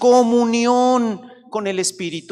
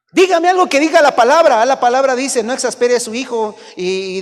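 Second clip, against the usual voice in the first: much higher, louder demand; demanding parent; 6 semitones higher, 9 dB louder than usual. Pretend. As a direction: insist the pastor quote scripture.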